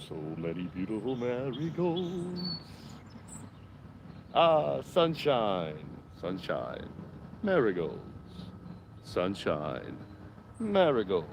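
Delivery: hushed golf-commentary delivery; mock golf announcer, slow and hushed; golf commentator voice. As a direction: narrate the flowers like a quiet golf broadcast. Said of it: "my golf commentating voice".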